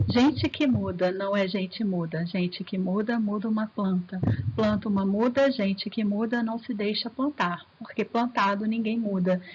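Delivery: rhythmic poem reading. Shown as a demonstration. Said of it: "eu vou ler aqui pra vocês terem essa sensação".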